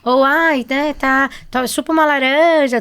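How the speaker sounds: a hint of a nagging grandma handing out home remedies; playful mock of old-fashioned advice; imitating the elders. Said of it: "os adultos sempre falavam".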